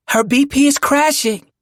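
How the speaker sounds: high, loud emergency shout; urgent high-pitched yell; alarmed nurse yell. A narrator's reading. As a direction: yell it out to the whole team. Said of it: "the nurse yelled".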